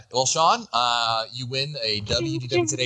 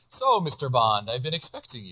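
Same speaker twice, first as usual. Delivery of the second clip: silky polite villain. Pretend. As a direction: purr it like a villain waiting in a chair. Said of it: "you spin around in the chair".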